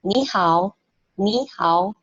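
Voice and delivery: "ni hao" with a rising "ni"; tone demo. Shown as a demonstration. Teacher repeats the correct "ni hao" for class. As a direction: model "ni hao", "ni" lifted.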